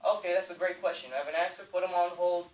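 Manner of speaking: calm confident reply. Shown as a demonstration. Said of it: "Do not get nervous".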